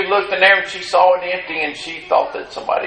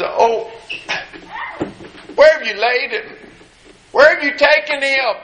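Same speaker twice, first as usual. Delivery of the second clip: higher, anxious plea; pleading Mary; 8 semitones higher than usual. Acted. Mary pleading with the gardener, higher and anxious. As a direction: beg to know where he is.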